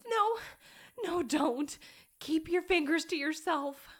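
high, forceful protest; loud refusal. Acted. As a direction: push back loudly.

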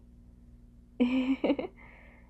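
light giggle. Acted. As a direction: giggle fondly at a partner. Amused by the partner's reaction.

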